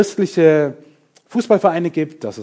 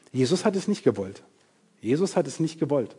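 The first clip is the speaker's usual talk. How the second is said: quiet emphasis; 7 dB quieter than usual. Real, not acted. Quiet repeated statement.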